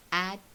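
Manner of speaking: "Atlanta" in three beats, AT, LAN, TA, long pauses between; split into syllables. Shown as a demonstration. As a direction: break "Atlanta" apart syllable by syllable. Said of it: "three syllable sounds".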